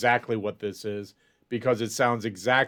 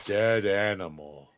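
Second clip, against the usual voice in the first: slow, drawn-out creature answer; Groon; 3 semitones lower, slower than usual. Acted. Game master's Groon answers what he smells, slow creature voice. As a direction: stretch both words in a creature voice.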